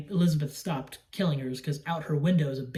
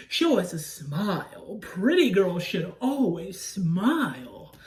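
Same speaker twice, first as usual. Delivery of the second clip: lightly imitated, very drawn-out line; Dennis Quaid; slower than usual. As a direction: stretch it out as a mock creepy request. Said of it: "when Dennis Quaid is like".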